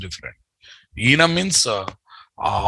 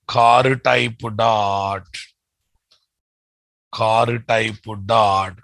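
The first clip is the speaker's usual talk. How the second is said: slow dictation; 4 semitones lower, much slower than usual. Shown as a demonstration. Dictating code slowly to class.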